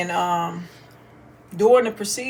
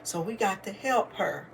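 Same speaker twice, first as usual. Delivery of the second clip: softer, hushed serious tone; mock solemn news; 8 dB quieter than usual. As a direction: break fake bad news gently. Mom pranking child in car.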